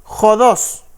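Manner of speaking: jodos said as "HO-dos", stress on the first syllable. Shown as a demonstration. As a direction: sound out jodos slowly, Greek style. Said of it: "aquí está la pronunciación".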